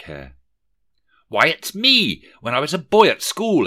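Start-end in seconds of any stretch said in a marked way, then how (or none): 1.3-3.7 much higher and louder, delighted; exclaiming. A narrator's reading. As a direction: cry out in glee at the memory. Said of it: "exclaimed Rishi Scrooge".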